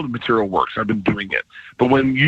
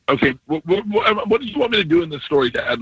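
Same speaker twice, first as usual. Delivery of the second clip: mock exasperation; 5 semitones higher than usual. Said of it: "I was like".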